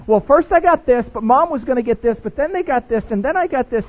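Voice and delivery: put-on loud, eager kid listing every gift; rambling kid. Imitating a kid who answers in full, loud and eager. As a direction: gush out the whole gift list. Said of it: "they're gonna go like this".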